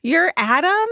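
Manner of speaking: booming question with pitch swung high. A narrator's reading. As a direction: read it as a mildly booming, high-rising greeting.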